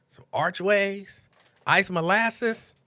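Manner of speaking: slow, drawn-out cookie names; savoring. Real, not acted. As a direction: linger on each word lovingly. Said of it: "savoring cookie names".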